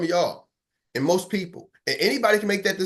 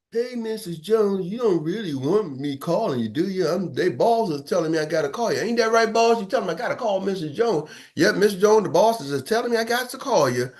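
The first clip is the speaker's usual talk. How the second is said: defeated caller; 2 semitones higher than usual. Retold or imitated. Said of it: "you're like".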